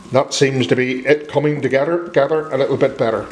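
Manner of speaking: talking while chewing crisps; crunching chips. Real, not acted. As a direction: mouth full of crunchy chips. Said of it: "excuse me, I'm crunching something".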